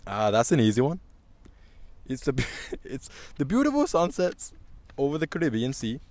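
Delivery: put-on Caribbean accent drifting toward Indian; badly faked Caribbean accent sounding Indian; failed Caribbean accent. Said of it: "I sound Indian".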